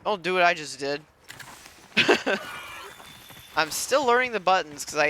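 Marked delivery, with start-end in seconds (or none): 1.3-3.5 airy, voiceless chuckle; sheepish laugh. Real, not acted. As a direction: laugh under your breath at your own slip. Laughs at own button mistake.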